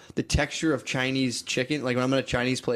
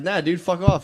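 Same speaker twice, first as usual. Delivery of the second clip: louder, higher brush-off; retold telling off; 5 semitones higher, 5 dB louder than usual. Telling the boss off over the tip, mock loud brush-off. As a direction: snap it back at him. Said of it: "I was like".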